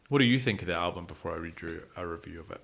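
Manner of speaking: ordinary delivery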